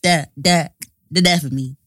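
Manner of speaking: halting rapper impression; impression of a rapper. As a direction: repeat it in a put-on rapper voice. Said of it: "I'm quite impressed by your impression".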